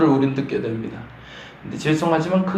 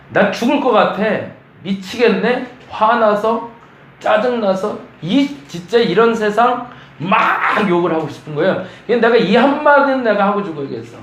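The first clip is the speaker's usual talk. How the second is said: fed-up outburst; 5 semitones higher than usual. Acted. Job venting to God, higher and fed up. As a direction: vent like you can't take any more.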